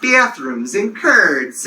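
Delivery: overdone upstate New York flat A's; mock upstate New York accent; exaggerated upstate New York accent. Shown as a demonstration. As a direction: say it slowly with flattened upstate New York vowels. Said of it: "they flatten their A's and they talk about".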